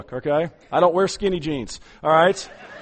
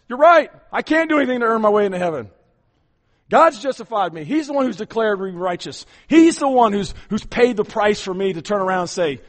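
bold reply; 3 dB louder than usual. Acted. Congregation answering the accuser.

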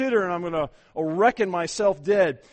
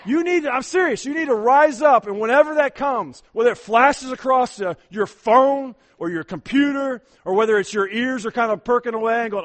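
loud, high, urgent preaching; rally the congregation to rise up; full-force preaching; 6 semitones higher, 8 dB louder than usual. Acted.

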